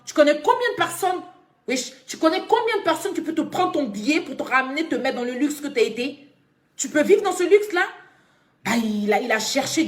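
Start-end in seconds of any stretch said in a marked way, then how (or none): 0.1-7.9 heated scolding. Real, not acted. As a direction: tear into her for lying. Scolding the girl on live.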